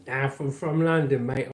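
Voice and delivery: put-on London accent. Shown as a demonstration. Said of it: "I sound like this if I was from London".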